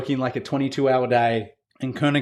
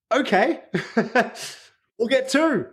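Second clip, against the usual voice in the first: high, giggly give-in; laughing resigned okay; 10 semitones higher, slower than usual. Retold or imitated. Telling the boss he'll get two, laughing and high.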